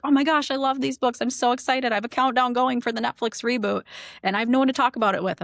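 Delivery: gushing, quick and high; excited fan. Retold or imitated. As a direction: imitate a thrilled superfan. Retelling excited fans' messages.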